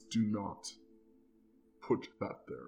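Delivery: growled delivery. Narrating a game scene and voicing Zixtus with a growl. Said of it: "Zixtus lets out kind of a growl and says".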